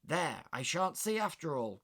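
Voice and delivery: loud disappointed West Country maid; disappointed cry. Acted. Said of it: "cried the disappointed first maid".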